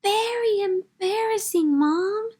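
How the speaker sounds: put-on high, prim little girl scolding her mom; tut-tut at Mom like a strict kindergartner; a small know-it-all telling off her mother; scolding child. A narrator's reading.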